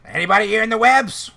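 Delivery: squeaky little kobold, loud and high. Acted. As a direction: call out high and bright like a tiny creature. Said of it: "a candlelight kobold. Named Niggle".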